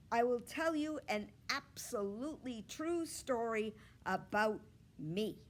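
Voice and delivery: a hint of a bold little girl asking for the spotlight; eager girl Gooney Bird. Gooney Bird asking the teacher to be the hero, eager.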